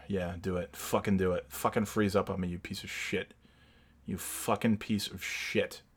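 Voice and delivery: quiet seething curses at the computer; muttered cursing. Real, not acted. Man cursing his freezing computer, quiet seething mutter. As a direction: mutter insults under your breath.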